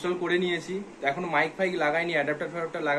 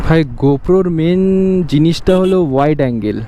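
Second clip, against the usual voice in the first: talking over wind noise; 14 dB louder than usual. Real, not acted. Riding motorbike, talking over engine.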